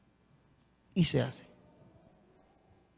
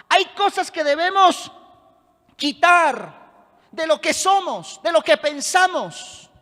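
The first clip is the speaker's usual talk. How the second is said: raised, insistent preacher's delivery; emphatic pulpit proclamation; forceful preaching; 4 semitones higher, 7 dB louder than usual. Real, not acted. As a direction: preach it with conviction, driving each phrase.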